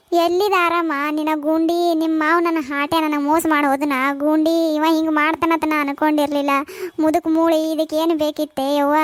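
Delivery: acted weeping complaint; tearful lament.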